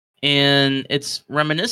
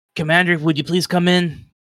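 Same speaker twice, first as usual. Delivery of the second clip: loud, calling-out yell; 4 semitones higher, 3 dB louder than usual. Narrating a scene where a character summons the commander, yelling out. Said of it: "he yells out".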